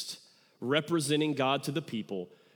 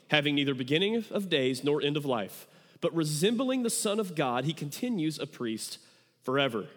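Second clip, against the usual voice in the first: scripture reading. Acted.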